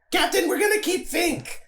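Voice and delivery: high, laughing call to the captain; excited announcement. Acted. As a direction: announce it like an overjoyed kid. Begs captain to keep new friend.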